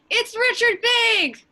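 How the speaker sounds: high, loud, drawn-out Southern holler; Southern shout. Acted. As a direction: holler your entrance like a big Texan. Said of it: "We hear a Southern man from offstage shouting".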